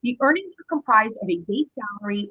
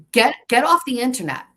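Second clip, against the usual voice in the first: louder, fed-up get off the internet; exasperated order; 5 dB louder than usual. Real, not acted. Vlogger ordering her online accuser off, exasperated and louder. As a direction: snap it at the accusers like a final warning.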